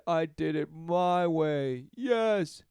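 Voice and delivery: slow, smug mocking voice; lightly hammed-up smug boast; mock boastful quote. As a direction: sneer it like a proud boaster.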